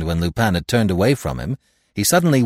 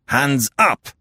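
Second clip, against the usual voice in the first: sharp cry; 4 semitones higher, 3 dB louder than usual. Acted. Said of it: "he cried".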